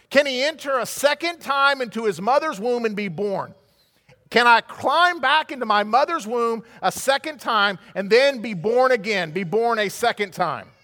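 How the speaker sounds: acted bewilderment, animated and insistent; shocked Nicodemus. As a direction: press the absurd question, easing off toward the end. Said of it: "Nicodemus is shocked".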